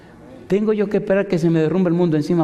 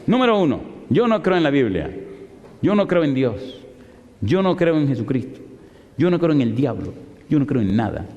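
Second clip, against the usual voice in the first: emphatic mock declaration; back on her high horse. Atheist professor listing disbeliefs to pastor, defiant. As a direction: list each denial defiantly, point by point. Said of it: "Y volvió y se montó otra vez".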